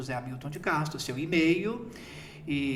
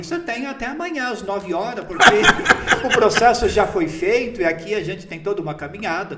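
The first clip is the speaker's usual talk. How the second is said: retold laughing; 4 semitones higher, 10 dB louder than usual. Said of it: "aí começou a rir".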